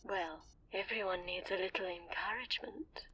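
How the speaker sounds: soft, whispered threat; menacing whisper. Acted. Villain hinting to Paul that she holds a hostage, menacing whisper. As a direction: breathe the threat close and quiet.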